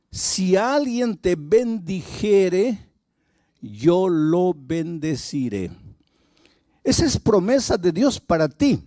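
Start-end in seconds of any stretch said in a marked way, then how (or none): 0.1-5.7 God's promise. Acted. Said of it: "la promesa de Dios a Abraham fue".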